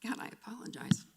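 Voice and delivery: whispered apology while crying; breathless tearful whisper; teary apology. Real, not acted. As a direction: fight back the tears. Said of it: "I do not like crying".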